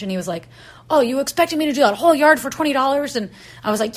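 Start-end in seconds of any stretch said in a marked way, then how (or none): 0.9-3.2 higher, louder and rushed mock outrage; indignant retort. Rake guy protesting the price to her, indignant. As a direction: push back in retold indignation. Acted haggling quarrel.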